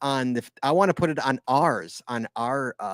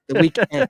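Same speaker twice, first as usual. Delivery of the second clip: "weekend" higher, louder, END stressed, with a laugh; second-syllable stress; 8 semitones higher, 7 dB louder than usual. Retold or imitated. Host mocking his co-host's syllables, laughing stress on END in "weekend". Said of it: "putting the emphasis on the wrong syllable".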